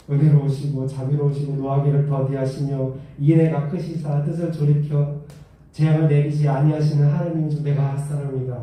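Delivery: low, grudging recital of God's mercy thrown back at him; sulky prophet reciting mercy as a complaint; arguing, not confessing. Retold or imitated. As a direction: read the praise like an accusation. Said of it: "고백하는 게 아니라 따지는 거야".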